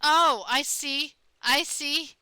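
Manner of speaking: loud, high, delighted discovery; excited. Real, not acted. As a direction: gasp with real delight. Discovers hidden character.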